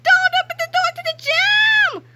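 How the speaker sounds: high, loud desperate warning; shouting. A narrator's reading. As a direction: yell the warning. Warning the teachers.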